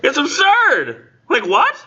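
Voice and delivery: high laughing outrage; laughing disbelief. Pretend. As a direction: squeal in amused disbelief. Mocking Marlow's lie.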